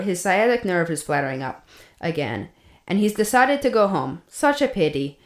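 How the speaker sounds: put-on light Russian accent reading a diary. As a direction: read it in a mild Russian accent. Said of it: "I'm trying to do a Russian accent".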